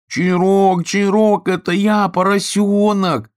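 loud joyful calling out; shout. Acted. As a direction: shout it across the river, overjoyed. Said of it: "закричал поросенок".

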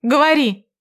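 раздражённо, резко; irritated command. A narrator's reading. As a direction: cut him off, fed up. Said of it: "Я начала раздражаться".

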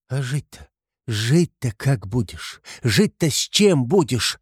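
slow, rising, desperate asking; anxious exclamation. A narrator's reading. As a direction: cry out in worry. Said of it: "восклицала Соня".

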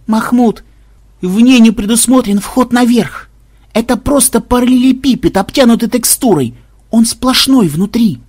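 high, insistent explaining voice; hysterical programmer, exasperated. A narrator's reading. Programmer tells Mahmud the tower is solid, exasperated.

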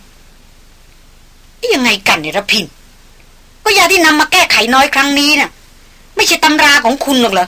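lightly voiced surprised woman; surprised question. A narrator's reading. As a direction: ask in disbelief.

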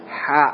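"Ha" with a wide-open mouth; ha dibuka. Shown as a demonstration. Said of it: "ha dibuka". ("Ha" dengan mulut terbuka lebar)

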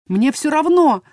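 defiant heroine shouting at king; yelling back. A narrator's reading. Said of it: "заорала я в ответ".

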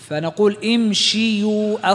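slow امشيوا with a clear kasra on the shin and yu after it; drawn-out imshiyu, each sound laid out; slow model pronunciation. Shown as a demonstration. Teacher explaining the root to students, slow careful pronunciation. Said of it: "teacher models the root form".

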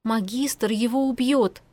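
slow, hard, deliberate warning; harsh. Acted. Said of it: "жёстко повторила Киара".

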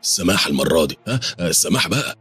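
stuttering, voice shooting up high; groveling servant begging the hooded man; frightened stammering plea. Acted. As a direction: plead for mercy, tripping over words. غزالي بيبوس في إيد صاحب الرداء.

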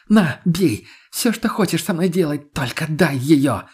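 high, loud plea, slowing at the end; desperate begging. A narrator's reading. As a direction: throw yourself at him, begging. Lena begging on her knees. (громкая отчаянная мольба)

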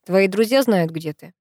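«друзья» leaned on with a falling tune; stress on друзья. A narrator's reading. Professor to Penny, hinting at her friends, stress on «друзья». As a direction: press the word «друзья», the rest low. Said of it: "Он сделал ударение на слове «друзья»".

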